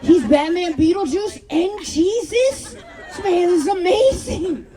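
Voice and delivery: high, drawn-out awestruck delivery; mock amazement. Comic retelling his dumb mistake to the crowd, amazed. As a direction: marvel slowly, pitch climbing. Amazed fool in retold misunderstanding.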